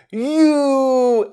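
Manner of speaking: loud, accusing "You!"; accusing shout. A narrator's reading. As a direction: call him out across the store. Manager insists, points at Ed.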